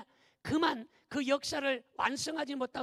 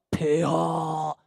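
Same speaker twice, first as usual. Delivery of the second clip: booming, low, drawn-out court call; low, slow mock courtier's bellow; deep-voiced eunuch demo; 8 semitones lower, 11 dB louder, much slower than usual. Shown as a demonstration. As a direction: intone it loud and low, held very long. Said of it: "이런 소리 들어봤어요".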